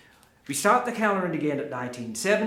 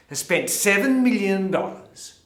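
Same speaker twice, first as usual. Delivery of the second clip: loud incredulity; 7 dB louder than usual. Acted. Comic tells audience of gallery's purchase, loud incredulous build. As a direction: get louder in disbelief, stretching the last words.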